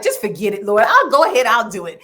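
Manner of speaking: mock exasperated giving in. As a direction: throw up your hands to the Lord.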